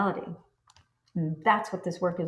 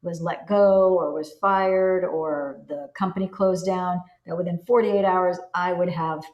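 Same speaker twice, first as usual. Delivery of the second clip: excited news; 4 dB louder than usual. Pretend. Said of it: "telling your best friend".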